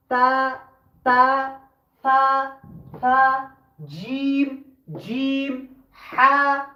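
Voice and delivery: letters from "আলিফ" to "জাল" one by one, vowels held; Arabic alphabet drill. Shown as a demonstration. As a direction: recite "বা", "তা", "সা" as spaced, level, lengthened syllables. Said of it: "আমি যেভাবে বলে দিচ্ছি".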